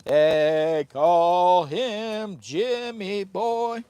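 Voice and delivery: slow, loud hype announcer. Acted. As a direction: announce it like a ring MC. Announcer-style self-introduction.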